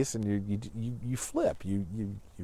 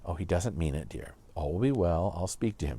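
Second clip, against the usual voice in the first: gentle reassurance; 5 semitones lower, 4 dB quieter than usual. Retold or imitated. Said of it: "could have said".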